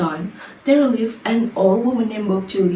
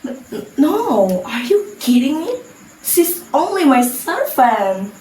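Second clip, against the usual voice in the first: nervous; 3 semitones higher than usual. Acted. Sinta nervously denies her mother to a woman. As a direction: stumble over the no as if caught out. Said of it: "Sinta became nervous".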